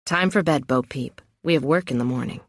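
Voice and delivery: tired lover teasing from the floor; low and drained, a little wry; lightly voiced worn-out man. Narrator voices Ozzy.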